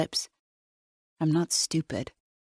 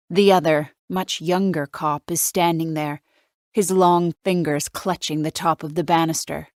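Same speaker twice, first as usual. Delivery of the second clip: ordinary delivery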